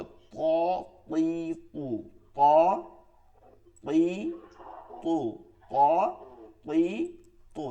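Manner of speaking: "ত, তি, তু" said thick and full-mouthed; emphatic thick "ত, তি, তু"; thick heavy to. Shown as a demonstration. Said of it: "একই হরফের উচ্চারণ মোটা হবে".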